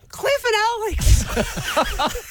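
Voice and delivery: high, slow strained words, throat tight with tears; choking up. Retold or imitated. Woman retelling answering her trainer while choked up and near tears. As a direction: squeeze the names out, near crying. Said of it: "to make my throat open so I could talk".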